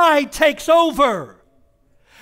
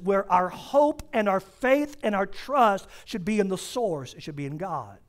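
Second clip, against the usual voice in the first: lower, much softer, intimate preaching; quiet sermon; 4 semitones lower, 7 dB quieter than usual. Acted. Pastor quietly pressing the point to the congregation. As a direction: bring it down close and quiet.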